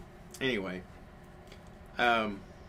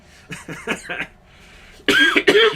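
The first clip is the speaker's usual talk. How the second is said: loud squealing laughter; high shrieking laugh; 17 dB louder than usual. Real, not acted. Laughter after the child's yelling.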